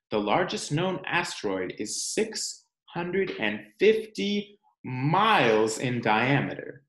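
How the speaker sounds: expressive storybook read-aloud; reading to children. Acted. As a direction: read it like story time for little ones. Reads picture book to children.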